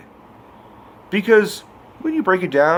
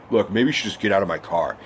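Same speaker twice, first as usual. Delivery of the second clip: quick, lower huffy dismissal; 5 semitones lower, faster than usual. Retold or imitated. Boy telling the girl to leave his car, huffy. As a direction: brush her off, imitating a huffy guy. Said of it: "he just gets all huffy".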